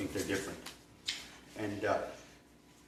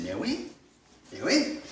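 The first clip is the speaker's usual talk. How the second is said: "Mais oui" with the pitch swooping up on "oui"; French-style rise on "oui"; rising intonation; 7 semitones higher than usual. Shown as a demonstration. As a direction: lilt upward at the end of "Mais oui". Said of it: "they get that rising intonation".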